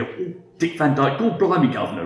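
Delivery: mild imitation of a mock Cockney accent. Locals mocking the immigrant's English accent, mild mock Cockney. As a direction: lightly ham up a fake Cockney accent. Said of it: "just mocking my accent".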